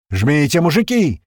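loud, high rallying call; shouted command. A narrator's reading. Uma shouting to the drivers over the radio. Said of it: "крикнул Ума".

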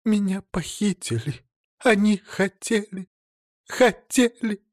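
high, rising theatrical sobbing; fake sobbing. A narrator's reading. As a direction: break down in staged sobs. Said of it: "Она заходится рыданиями".

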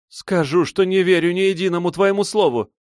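high, loud, scornful refusal; defiant disbelief. A narrator's reading. Silva rejects his offer, high and scornful. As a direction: spit back the distrust.

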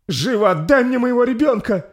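very high, loud enraged mother; furious scream. Acted. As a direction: demand the child back in rage. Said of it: "гневно прокричала Ингрид".

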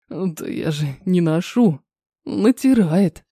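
низко и медленно бубнит; буркнуть смущённо себе под нос. Acted. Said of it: "продолжает неявно бубнить". (здоровяк смущённо бубнит, низко и медленно)

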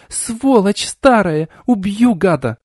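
put-on high, slow furious shriek at the old man; near-screaming rage. A narrator's reading. Girl lashing the old man with panties, shrieking in rage. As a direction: let it tip into a shriek. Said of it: "почти визжала".

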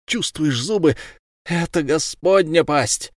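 mother taunting the killer while biting him; vengeful muttering. Acted. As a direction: taunt him with each bite. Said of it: "она приговаривала".

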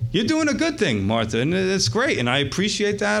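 imagine a teacher softening a correction with praise; lightly acted reassurance; gently appreciative. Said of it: "I could hear him saying in his tone".

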